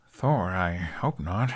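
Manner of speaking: grimacing. Acted. Hiccup grimacing reply.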